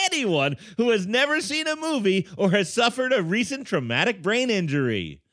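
lightly voiced trailer narrator; movie preview voice. Shown as a demonstration. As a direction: read it like a film trailer, lightly. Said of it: "in my movie preview voice".

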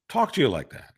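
ordinary talk, nothing marked

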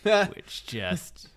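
high delighted squeal; excited squeal. Real, not acted. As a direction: squeal with glee at the title. High squeal over the title.

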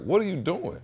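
high, incredulous what are you doing; father catching son with the hose, high and stunned; shocked question. Retold or imitated. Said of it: "I was just like".

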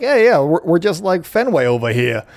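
playful Boston accent, lightly put on; a hammy Boston fan bragging about the wall; mock Boston accent. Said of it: "I love doing Boston accents".

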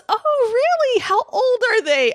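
high, bright mock cashier voice; cashier's eager question. Mimicking the cashier asking about the kids. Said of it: "she goes".

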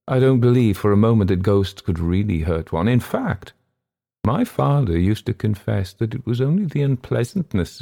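mild character voice with lively swoops; storytelling guest. Acted. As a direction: argue the point in a lifted, animated voice.

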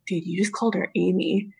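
low, hushed imitation of a discreet aside; retold whisper. Friend leans in to warn the boyfriend, retold whisper. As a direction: drop right down as if tipping off a friend. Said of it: "lean in and whisper him".

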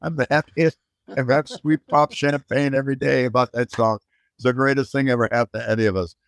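high, delighted outburst, fast at the end; gleeful disbelief at a silly question; excited retort. Retold or imitated. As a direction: burst out with glee. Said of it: "I go".

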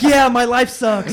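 laughing mock reply. Friend mocks the reply, laughing.

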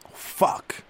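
sharp whispered swear; breathless whisper of defeat; whispered curse. Acted. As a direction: curse under your breath after losing. Lost chess to creatures.

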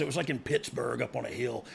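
ordinary talk, nothing marked

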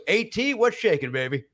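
mock over-familiar hello to a celebrity; cheeky greeting. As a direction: jump up high, then drop on "baby". Friend's cheeky greeting acted out.

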